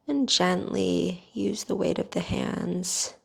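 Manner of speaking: calm, even guiding voice with long pauses; guided meditation. Real, not acted. Teacher guiding listeners through bedtime neck stretches, calm guided meditation.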